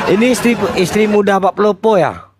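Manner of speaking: high, laughing teasing question; laughing tease. Real, not acted. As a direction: tease him through a laugh.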